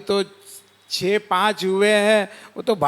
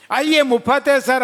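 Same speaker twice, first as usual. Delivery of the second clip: hawker calling; 5 semitones higher, 3 dB louder than usual. Acted. Newspaper stall calling readers.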